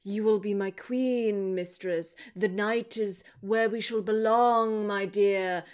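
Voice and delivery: slow, lightly voiced dark charmer; mock villain seducer. Mocking Darkness wooing Lily, slow and smarmy. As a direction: drag out each word like a hammy vampire lord. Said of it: "There's a lot more of sort of like".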